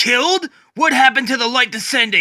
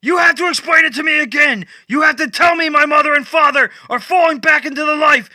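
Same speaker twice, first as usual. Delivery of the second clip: high, much louder desperate shouting; yelling; 11 semitones higher, 6 dB louder than usual. Acted. Batman screaming at Swamp Thing as he withers away. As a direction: scream after him as he leaves.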